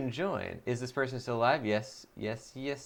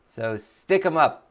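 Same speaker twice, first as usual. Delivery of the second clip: mock tough guy; 2 semitones higher, 4 dB louder, slower than usual. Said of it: "Voice of Nick voice".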